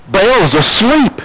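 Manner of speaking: slow, high-pitched mock announcement; high, drawn-out taunt. Elijah mocking the Baal prophets, high drawn-out taunt. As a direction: stretch it out and lift the pitch at the end. Same words repeated as mocking call.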